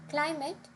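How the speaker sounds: "climate" as CLI-mate; "climate" with the weight up front; stress on first syllable. Shown as a demonstration. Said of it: "would have stress on the first syllable".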